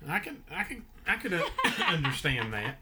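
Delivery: coughing through the words; choking on a drink. Real, not acted. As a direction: talk while choking, laughing and coughing. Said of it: "I'm choking to death here".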